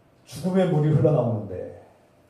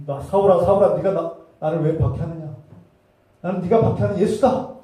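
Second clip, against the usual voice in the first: loud, raised voice calling out; Jesus rebuking; 3 semitones higher, 6 dB louder than usual. Retold or imitated. Jesus confronting Saul over persecution, loud rebuke. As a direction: call out an accusing divine question.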